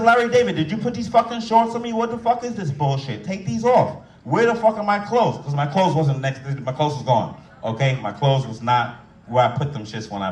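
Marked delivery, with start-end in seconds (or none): 0.0-5.4 mock angry yell. Yelling at the doctor.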